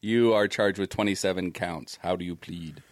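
a hint of a formal judge; playing the judge. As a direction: read the charge as a judge. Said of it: "I'll be the judge".

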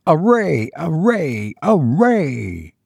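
a ringing call that fades into distance; a summons echoing and fading over the battlefield; great voice shouting. A narrator's reading. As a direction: call out like a voice from the sky. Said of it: "he heard a great voice and a shout".

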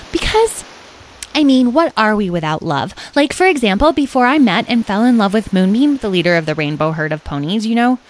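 lively, gushing chatter about love; eager character voice, emphatic; lovestruck Carnelian. Acted. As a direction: ramble on earnestly, lovestruck.

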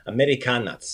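Americanac ending in "ts"; final TS sound. Shown as a demonstration. Teacher showing the last sound, "ts" ending on Americanac. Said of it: "sound is a T S sound".

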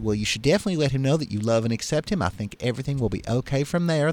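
fast Southern bartender; lightly voiced Mississippi reassurance; Mississippi accent. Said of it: "how's my Mississippi accent".

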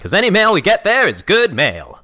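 put-on old-timey announcer. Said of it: "I like this new character of yours".

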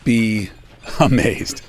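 hammed-up trailer voice cracking into a laugh; dramatic announcer voice. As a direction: drag it out like a movie trailer. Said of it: "Why am I talking like this?".

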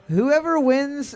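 slow and high, stretching each word; milk the suspense; drawn out. Acted. Repeats it for emphasis.

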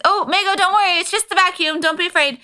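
high-pitched mock soothing, retold; reassuring. Telling Maygo it's just the vacuum, high retold reassurance.

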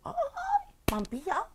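alarmed, high and loud yelp; retold panic at being caught; panicked cry. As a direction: shout as if just caught red-handed.

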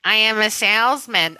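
lightly put-on salesman; a touch of stilted salesman character. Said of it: "Oh, that's a perfect voice".

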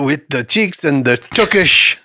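put-on slow try at a Yiddish accent; amateur Yiddish-flavored delivery; attempted Yiddish accent. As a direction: lightly put on Yiddish, leaning into TUKISH. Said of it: "you got close there with the".

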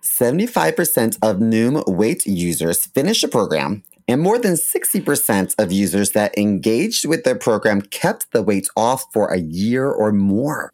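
ad read. Acted. Host reads sponsor copy.

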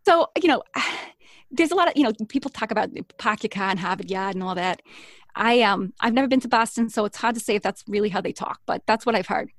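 exaggerated Boston accent with dropped r's; broad Boston talk, played up on purpose. Shown as a demonstration. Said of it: "next one down from Maine is Boston".

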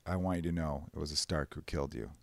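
a hint of a quiet, cold avenger; Arya quoting. Arya telling the Freys in a quiet, cold voice. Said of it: "she's like".

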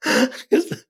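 high-pitched, laughing confession. Real, not acted. Admitting to co-hosts he watched from his window, laughing. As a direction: squeeze the words out through laughter.

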